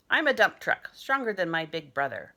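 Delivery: excited play. Pretend. Boy pretending truck.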